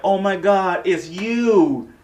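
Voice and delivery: high, loud awestruck squeal; starstruck gush. Retold or imitated. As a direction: gush like a fan meeting a hero. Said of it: "And Blake was like".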